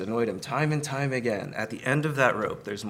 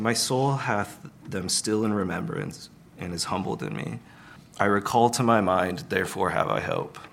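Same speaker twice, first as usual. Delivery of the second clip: scripture reading. Acted. Reads scripture aloud.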